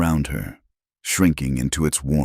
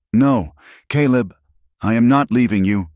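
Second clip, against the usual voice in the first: pleading refusal; 7 semitones higher, 4 dB louder than usual. Acted. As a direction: dig in and beg him to stop. Mara refuses to leave him.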